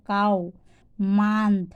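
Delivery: কাউ, মান্থ with an "aa" vowel. Shown as a demonstration. Teacher showing O pronounced "aa" in কাউ, মান্থ. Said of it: "ওর উচ্চারণ যখন আ হয়".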